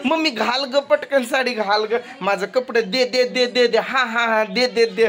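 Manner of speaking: lightly voiced nagging little girl; imitating Trisha. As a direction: mimic a child's rapid, repeated demands. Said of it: "Trisha कशी म्हणते".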